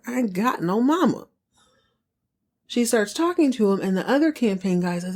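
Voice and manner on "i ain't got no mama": high mock voice of Cliff brushing it off; high mock voice of Cliff shrugging off his mother; Cliff's voice. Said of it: "like he said".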